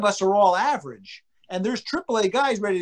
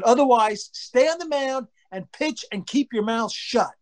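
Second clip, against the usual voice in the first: slow, higher-pitched orders; re-enacted angry dad; stern retold scolding; 4 semitones higher than usual. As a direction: spell out the ultimatum firmly. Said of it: "But I screamed it".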